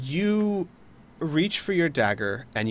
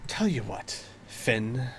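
evil; 4 dB quieter than usual. Acted. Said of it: "gets an evil glint in her eye and says".

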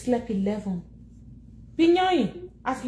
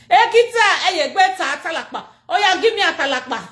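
much higher, louder call; 5 semitones higher, 5 dB louder than usual. Real, not acted. Calling to Kita for atalakpa, loud high call. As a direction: call out across the room.

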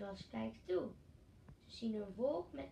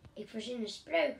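calling out; 6 dB louder than usual. Acted. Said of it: "roept ze".

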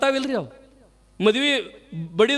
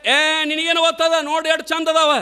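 proud wife; 5 semitones higher than usual. Retold or imitated. Wife answers husband in story.

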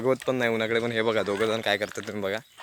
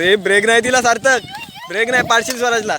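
higher, louder call to brake; warning shout; 9 semitones higher, 6 dB louder than usual. Real, not acted. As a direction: yell a warning across the yard. Father warning son riding bike. (मुलाला मोठ्याने ओरडून सावध करणे)

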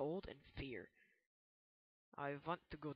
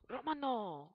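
startled gasp; 7 semitones higher, 7 dB louder, slower than usual. Real, not acted. Spots the enemy suddenly.

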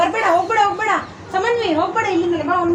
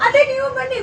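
higher, a bit louder call; 5 semitones higher than usual. Shown as a demonstration. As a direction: call it out firmly. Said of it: "ಜೋರಾಗಿ ಹೇಳು ಸಮನ್ವಿ". (ಜೋರಾಗಿ ಕರೆಯುವುದು)

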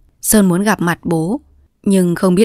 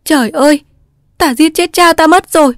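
high, loud, frantic outcry; panicked cry; 10 semitones higher, 7 dB louder than usual. A narrator's reading. Girl fearing she crushed her father, a panicked loud cry. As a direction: cry out in terror at the accident. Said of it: "Sơn hốt hoảng kêu".

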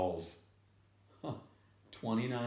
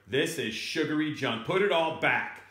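scolding father; 4 semitones higher, 4 dB louder than usual. Acted. Father scolding child in story.

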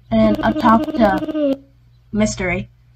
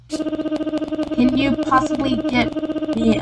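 slow, higher, drowsy complaint; groggy woken woman; 5 semitones higher, 4 dB quieter, much slower than usual. Acted. Woken sleeper grumbles at the player, slow and drowsy. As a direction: stretch it out like someone just woken up.

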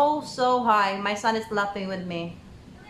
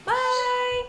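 cheery goodbye; 13 semitones higher, 3 dB louder than usual. Real, not acted. Sing-song goodbye to viewers.

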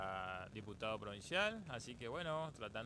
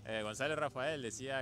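louder, projected self-introduction; speaking up; 3 semitones higher, 6 dB louder than usual. Real, not acted. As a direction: raise the voice when asked to speak up. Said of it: "Un poquito más fuerte".

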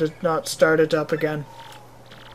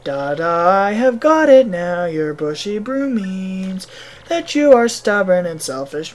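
put-on slow, drawn-out hammy Russian accent; bad Russian accent; 2 semitones higher, 3 dB louder, slower than usual. Villager analyses the traveler's mustache, hammed-up Russian accent. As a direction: do a cheesy Russian fortune-reader. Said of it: "This is a very shitty Russian accent".

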